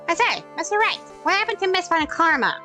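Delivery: put-on high wavering old judge; old man voice. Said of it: "I have to do the old man voice".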